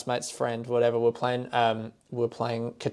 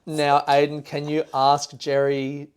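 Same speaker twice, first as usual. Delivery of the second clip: slowed imitation of Irish girlfriend; Irish accent; slower than usual. Girlfriend asking boyfriend about the dog, slow imitated Irish. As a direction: ask slowly in her Irish accent. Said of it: "and she said".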